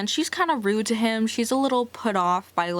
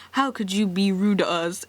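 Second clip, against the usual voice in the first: mock-offended family member, voice put on; indignant family. Family scolding Angela for being rude back, mock indignant. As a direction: play the outraged relative, lightly hammed. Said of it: "when she's rude back to them and they're like".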